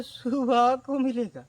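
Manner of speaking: slow, loud, drawn-out put-off; lazy brush-off. Retold or imitated. Shopkeeper fobbing off the customer, drawn out and slow. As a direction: stretch it out like a shopkeeper dodging payment.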